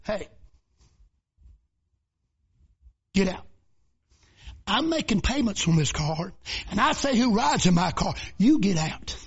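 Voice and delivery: a touch of firm command, understated; ordering the devil out. Retold or imitated. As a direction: tell him to get out, mildly stern. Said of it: "opened the right side of that door and said".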